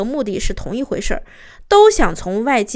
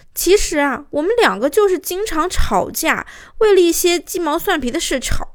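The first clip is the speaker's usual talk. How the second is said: higher-pitched, put-upon wife's protest, no real tears; aggrieved complaint; 5 semitones higher, 3 dB louder than usual. Retold or imitated. Mrs Hu complaining to the counsellor about her marriage, aggrieved. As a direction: imitate a wronged wife pleading her case. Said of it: "边哭着边满脸委屈地跟我说".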